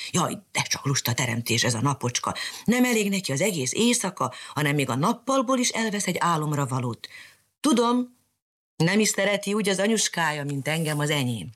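put-on girl musing about the lazy sun; lightly voiced little girl. Little girl grumbling to herself.

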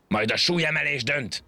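high-pitched, contained angry yell. A narrator's reading. Raging monkey after losing the race, yelled. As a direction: yell it high, without full volume. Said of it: "ordította".

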